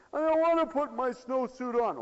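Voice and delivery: put-on high, loud kid's complaint; protesting child. Child refusing to get dressed to go out, loud protest. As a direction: refuse loudly like a balky child.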